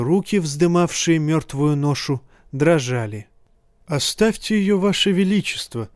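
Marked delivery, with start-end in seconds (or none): 3.9-5.9 raised, urgent call to the king. A narrator's reading. Cersei calls out to the young king to leave the mother, raised and urgent. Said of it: "крикнула королю Серсея".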